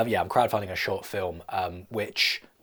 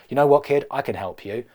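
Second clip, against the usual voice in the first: Macbeth; 4 semitones higher, 7 dB louder than usual. Acted. Macbeth's line acted.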